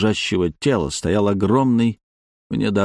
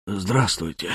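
gurgling fish man croak; 2 semitones lower, 6 dB quieter, slower than usual. Acted. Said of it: "неприятный булькающий голос". (булькающий неприятный голос)

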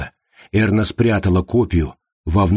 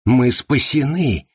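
higher, slow joyful cry; happy relief; 6 semitones higher, slower than usual. A narrator's reading. Anderson rejoices that they are saved, slow and joyful. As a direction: savour being saved, beaming. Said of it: "счастливо рассмеялся Андерсон".

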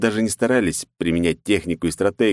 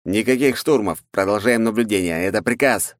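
stern; 3 semitones higher than usual. Acted. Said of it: "строго ответил планетоид".

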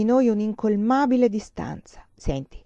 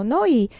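"Noi" set apart, higher and louder; emphatic, raised "Noi"; stress on NOI; 5 semitones higher, 7 dB louder than usual. A narrator's reading. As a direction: lean firmly on the word "Noi". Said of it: "e accentuò questa parola".

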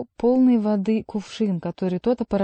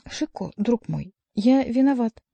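humble repentance; 4 semitones higher, 3 dB louder than usual. A narrator's reading. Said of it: "униженно каялся Гаранфло".

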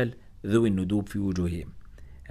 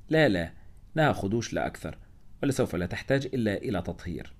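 ordinary delivery, nothing marked

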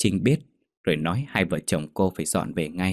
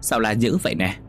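calling out; 3 semitones higher than usual. Acted. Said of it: "có tiếng kêu".

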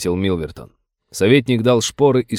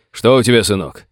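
louder call to the wounded man; shout; 5 dB louder than usual. Acted. Sheriff calling to the wounded Irishman, shouting. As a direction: call out across the field. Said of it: "крикнул Крамер".

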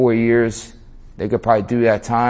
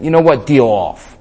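louder, abrupt heated refusal; a little heated; 4 semitones higher, 6 dB louder than usual. Retold or imitated. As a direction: act out losing your cool, voice raised. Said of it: "Now I'm a little heated".

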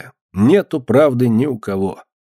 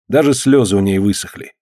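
usual speaking voice

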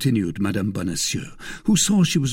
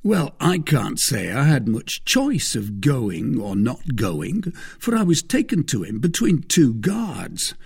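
slightly raised, emphatic, self-important voice; Bonacieux, self-satisfied husband; 4 semitones higher, 3 dB louder than usual. Acted. Husband explaining his visit to his wife, self-satisfied. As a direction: explain it with mild pomposity.

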